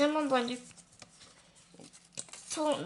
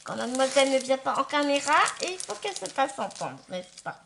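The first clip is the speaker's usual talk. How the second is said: fast and loud; amused; 2 semitones higher, 7 dB louder, faster than usual. Real, not acted. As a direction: rush it out, amused. Joking about noisy pet.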